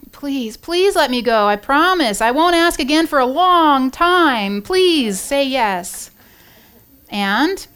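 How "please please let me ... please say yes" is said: slow pleading, pitched higher and a little louder; begging. Acted. Wife begging husband to let her go, slow pleading. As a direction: draw out each please like a wheedling wife. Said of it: "she goes to begging".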